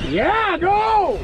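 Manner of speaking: loud high whoop of "go"; excited cheer. Real, not acted. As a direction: cheer him on, full voice. Hooked fish, cheering on fight.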